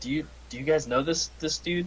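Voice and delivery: hushed whispered aside. A character leans over to fellow party members, whispering. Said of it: "I whisper".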